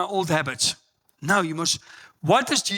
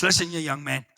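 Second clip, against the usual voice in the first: stern pastor warning; 3 dB louder than usual. Retold or imitated. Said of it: "He says".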